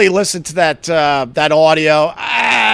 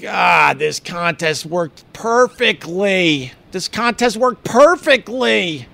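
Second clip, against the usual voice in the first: slow, savoring each word; pleased with themselves; smug and slow; smug satisfaction; 3 semitones higher, slower than usual. Retold or imitated. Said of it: "look at each other like".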